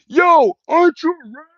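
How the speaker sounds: high, loud mocking call-out; a heckler jeering from the crowd. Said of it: "you hear one voice".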